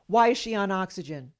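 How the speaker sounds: mildly forceful retold demand; imitated demanding question. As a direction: demand an answer like a brusque doctor. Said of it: "and demanded".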